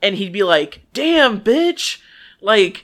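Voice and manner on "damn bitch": loud, high mock exclamation; mock outburst. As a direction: blurt it out like a startled guy. Imagined guy waking to snoring.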